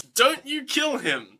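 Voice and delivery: slow, high, measured quote; mock title pitch. Shown as a demonstration. Host pitches the line as the film's title, slow mock proclamation. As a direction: present it like a movie title.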